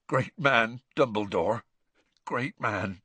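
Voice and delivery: understated tearful admiration, fading. Acted. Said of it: "Hagrid began to sob".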